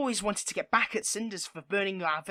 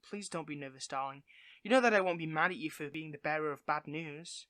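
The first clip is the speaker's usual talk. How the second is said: reassuring; 3 semitones lower than usual. Real, not acted. Reassuring nervous minion.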